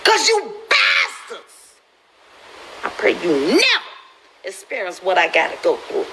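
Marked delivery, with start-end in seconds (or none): 0.0-3.8 crying shout. Real, not acted. Grieving mother crying out at her critics. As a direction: cry it out at them.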